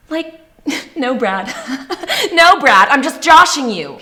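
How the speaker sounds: hammed-up retold retort, pitched high; mock-joking retort. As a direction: build from a laugh into a loud teasing jab. Sarcastic retort in retold exchange.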